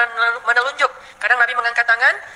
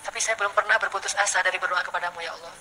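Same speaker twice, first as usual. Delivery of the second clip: softer, fading intimate plea; soft heartfelt prayer; 5 dB quieter than usual. Shown as a demonstration. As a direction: pour out your heart quietly to God. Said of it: "Jadi kita doa pelan".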